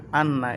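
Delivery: "আন্না" with the doubled n held as a hum; nasal ghunnah. Shown as a demonstration. Teacher demonstrates ghunnah on shadda, "আন্না" with held nasal n. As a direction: hold the n in "আন্না" through the nose. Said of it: "তাসদীদ থাকলে গুন্না করে পড়তে হবে".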